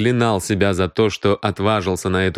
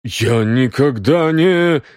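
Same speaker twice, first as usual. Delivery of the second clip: slow, faltering higher-pitched denial; protesting denial; 4 semitones higher, 3 dB louder, slower than usual. Acted. Cornered Грегсон starts to deny it, protesting. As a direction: begin a denial and break off.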